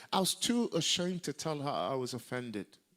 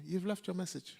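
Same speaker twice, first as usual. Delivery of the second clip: high, pointed reproof; scolding mother figure; 8 semitones higher than usual. Retold or imitated. Mentor dressing down the apostle, imitated high scolding. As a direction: imitate her correcting you from above. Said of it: "That's what she told me".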